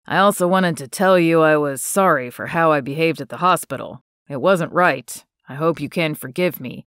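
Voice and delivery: a lightly voiced shy young man, earnest thanks; Brand's voice. Brand apologizes, same voice.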